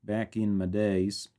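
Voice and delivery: slow, drawn-out southern accent; put-on southern accent, unhurried. Shown as a demonstration. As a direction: stretch it out in a southern drawl. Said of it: "with a southern accent".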